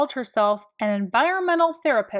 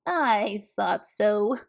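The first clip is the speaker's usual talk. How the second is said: with a smile; 2 semitones lower, much slower than usual. A narrator's reading. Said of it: "said with a smile".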